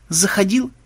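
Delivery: high, rising challenge; accusing side. Acted. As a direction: pitch it up like an accusation. Acts out back-and-forth dispute. (с вызовом, повыше)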